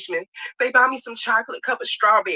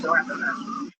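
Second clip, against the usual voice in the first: whispered echo; 6 dB quieter than usual. Shown as a demonstration.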